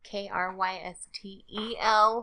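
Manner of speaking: spelled slowly, letter by letter; slow clear spelling for clarity. Shown as a demonstration.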